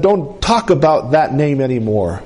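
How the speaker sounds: lightly voiced stern father; restrained, retold sternness. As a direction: lay down a warning, imitating a strict father. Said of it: "being a stern Muslim".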